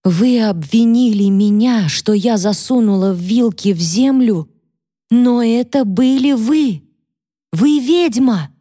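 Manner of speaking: put-on high, slow, terrified girl's voice; frightened maid. Catherine, terrified, calls her mistress a witch in a high voice. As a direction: hurl the accusation through fear.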